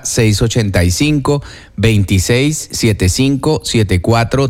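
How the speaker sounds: phone number dictated slowly in separated groups; slow, for note-taking. Shown as a demonstration. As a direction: read it out slowly so listeners can write it down. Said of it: "Lo repito despacio para que ustedes tomen nota". (número dictado despacio, para tomar nota)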